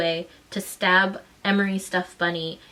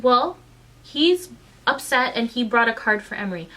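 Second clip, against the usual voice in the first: louder, throw her words back at her; indignant mocking echo; 3 semitones higher, 4 dB louder than usual. Mother mocking the teacher's excuse, indignant and loud.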